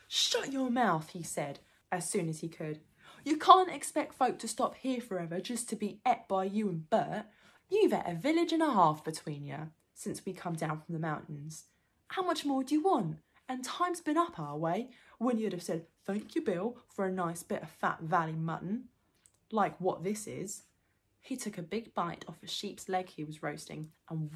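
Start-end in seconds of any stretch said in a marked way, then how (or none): 0.1-1.1 slow, loud higher troll bark; choked-up loud troll rebuke; troll William, cross. Acted. Troll scolding his mates, cross. 3.2-20.6 loud, indignant troll complaint; troll William, grumbling. Acted. Troll telling off his hungry mates, grumbling.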